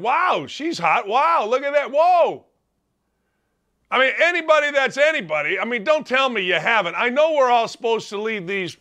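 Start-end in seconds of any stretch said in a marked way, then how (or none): 0.0-2.5 building impressed wow. Retold or imitated. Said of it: "You're like".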